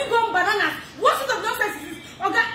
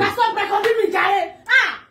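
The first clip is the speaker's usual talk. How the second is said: raised, louder voice telling someone off; annoyed protest; 2 semitones higher, 5 dB louder than usual. Real, not acted. Woman telling the man filming her to stop, annoyed. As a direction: snap at the person filming.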